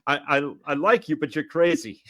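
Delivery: high, loud whooping praise; excited movie quote. Retold or imitated. Quoting the dart scene to co-hosts, high excited outburst. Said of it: "where he's like".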